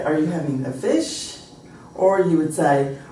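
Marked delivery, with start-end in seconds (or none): 0.0-1.4 plain question rising on FISH; American question melody. Shown as a demonstration. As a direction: simply lift FISH at the end, American style. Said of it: "You'd say".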